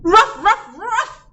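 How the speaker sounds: high, loud playful woof woof; barking dog. Acted. Bow Wow barks to join the kids at school, high and loud. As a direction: bark like an eager little dog. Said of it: "barked Bow Wow".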